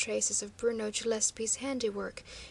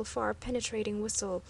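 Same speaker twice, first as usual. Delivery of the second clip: usual speaking voice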